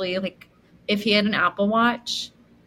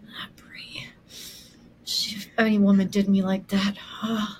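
Carlos impression; 4 dB quieter than usual. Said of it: "he was like".

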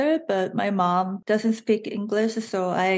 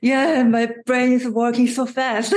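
laughing; 3 semitones higher, 5 dB louder than usual. Real, not acted. Laughing about busy brain.

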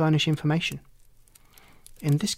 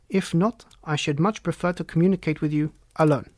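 lightly voiced haughty nobleman, formal and emphatic; a hint of a self-important Count; stately Bohemian Count; 2 semitones higher than usual. Client introducing himself to the detective, lightly voiced as stately.

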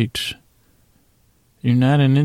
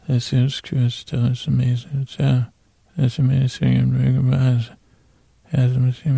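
mumbled, half-intelligible character voice; Mumble Bear. Acted. Bear mumbling thanks to patrons, indistinct. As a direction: mumble it, words running into each other. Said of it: "I'll just do an imitation of you, Mumble Bear".

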